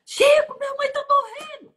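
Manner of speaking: very high, loud cry of alarm; retold scream for help. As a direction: imitate a daughter screaming out for help. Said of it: "A minha filha deu um grito".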